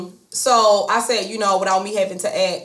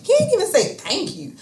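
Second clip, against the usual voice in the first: shocked; 10 semitones higher than usual. Retold or imitated. Retelling shock at no thanks.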